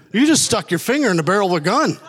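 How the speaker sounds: high, animated mock disbelief; incredulous. Bystander to the man who faced the gun, incredulous. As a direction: retell amazed disbelief, on the edge of laughing. Acted disbelief at reckless act.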